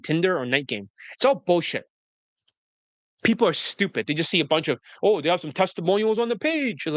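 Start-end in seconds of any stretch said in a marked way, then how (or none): 5.0-6.9 higher, mock-awed gullible customer; mock impressed. Coach mimics people impressed by testimonials, mocking awe. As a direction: gush in mockery, swooping up toward "page".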